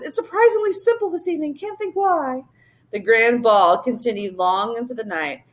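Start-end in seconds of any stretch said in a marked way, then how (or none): 0.0-2.4 giddy king. A narrator's reading. Excited king keeps talking.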